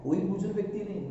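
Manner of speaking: quick, startled query; taken aback. Acted. Ramu stunned by the father's condition, taken aback. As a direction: question it in quick disbelief. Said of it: "अब रामू हक्का बक्का".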